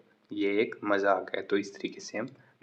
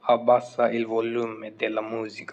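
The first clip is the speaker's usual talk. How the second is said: slow model sentence; 4 dB louder, much slower than usual. Shown as a demonstration. Teacher modelling the music example, very slow. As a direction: say it very slowly, word by word. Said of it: "जैसे कि music की आवाज़ कम करें".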